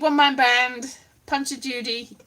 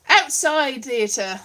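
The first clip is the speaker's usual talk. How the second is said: slow emphatic; 4 dB louder, much slower than usual. Shown as a demonstration. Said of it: "that's what you need".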